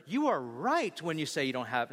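a sassy, pointed delivery; mock sassy Jesus line; snappy, sassy reading of the line. Shown as a demonstration. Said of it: "no, he didn't say it in that tone".

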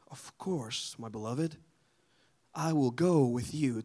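a hint of a gentle, doting Jesus; mock tender Jesus. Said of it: "Jesus wasn't like".

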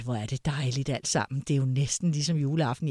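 a hint of a cosy old lady's delight; grandmother's voice. Grandmother voiced in family story.

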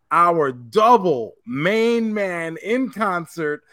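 slow, drawn-out concert introduction; mock announcer. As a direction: introduce the star like a hype man.

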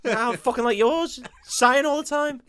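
high, hammy French voice; mock French accent. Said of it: "our English accent".

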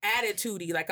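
ordinary delivery

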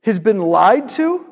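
slow, deliberate words, each phrase spaced out; slow earnest reasoning. Retold or imitated. Preacher voicing his own angry thought while watching, slow and deliberate. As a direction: lay out the reasons slowly, weighing each word. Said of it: "And I'm like".

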